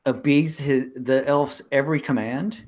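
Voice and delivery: lightly voiced wise woman, pitch rising as she presses the point; Cosetta insisting. Wise woman chiding two doubters, rising insistence. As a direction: press them, a touch exasperated.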